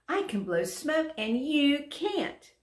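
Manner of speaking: high, teasing show-off; a dragon bragging to the animals; boastful. Acted. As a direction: gloat at the others.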